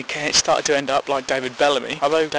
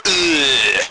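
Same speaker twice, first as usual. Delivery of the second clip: disgusted groan; 3 dB louder than usual. Retold or imitated. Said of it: "dislike it and go".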